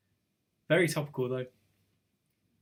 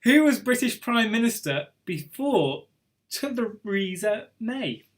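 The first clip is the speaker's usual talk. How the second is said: an odd, higher sing-song read with a slowed ending; said funny; 4 semitones higher than usual. Real, not acted. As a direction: stretch Theresa May out in a funny quiz-host lilt. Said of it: "Don't know why I said that funny".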